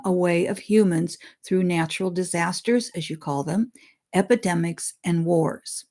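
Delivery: solemn read-aloud of a spirit's words; reading a channeled message. Acted. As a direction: deliver the message deliberately, like scripture.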